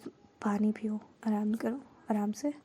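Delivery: a soft unvoiced hush, tending to a friend; caring whisper. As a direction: whisper it gently, like settling someone down. Caring friend tends tired girl. (धीमी फुसफुसाहट में देखभाल)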